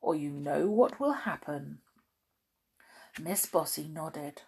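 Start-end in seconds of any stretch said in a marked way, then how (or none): 0.0-1.8 stern. Acted. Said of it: "sternly wagging his finger".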